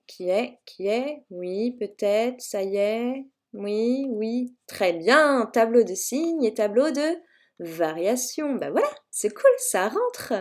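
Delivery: mock delight at imagined pupils answering; pretend class response. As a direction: coax answers from a silent class, then draw out the praise. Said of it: "on fait genre".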